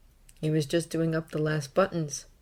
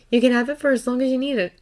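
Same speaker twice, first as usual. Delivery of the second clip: higher, quick, kindly offer; smiling reassurance; 7 semitones higher, 4 dB louder, faster than usual. A narrator's reading. Aunt offering her nephew the room, smiling quick reassurance. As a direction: offer it freely with a smile. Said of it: "she smiled at him".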